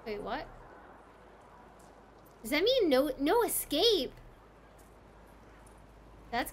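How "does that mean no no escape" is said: higher, emphatic disbelief; alarmed question. Real, not acted. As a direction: ask it as the clue sinks in. Alarmed by game clue.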